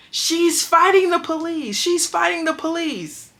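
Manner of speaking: high, loud, slow alarm call to the guards; imitated yell. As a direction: drag it out like raising the alarm across the dorm. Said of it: "And yells out".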